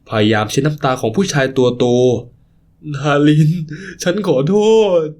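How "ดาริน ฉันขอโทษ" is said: tearful plea. Acted. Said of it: "ร้องไห้สะอึกสะอื้น".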